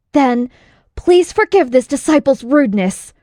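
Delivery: humble but eager before the strike; polite disciple. Acted. Disciple asking his master's pardon before attacking, polite and eager.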